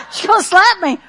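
loud, high building preaching; rising preacher cadence. Real, not acted. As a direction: climb into full preaching fire. Preaching rises to full force.

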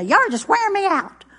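a hint of a tired Southern mother; mother's exasperation. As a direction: toss it off like a worn-out mom. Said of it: "That's what my mother would say".

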